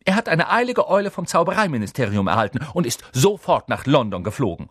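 brisk high-pitched official explanation; imperious and cool; stern professor. A narrator's reading. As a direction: explain with teacherly authority.

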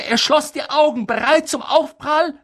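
high, loud, urgent narration; tense climax. A narrator's reading. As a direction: brace for the crash at full pitch. Narrator at moment of expected crash.

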